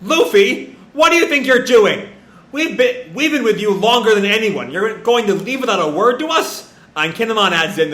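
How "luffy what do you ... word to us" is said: high, scolding retold outburst; acted yelling, pitched well up; indignant yelling. Momo confronting Luffy for leaving, indignant yelling. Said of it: "this is Momo yelling".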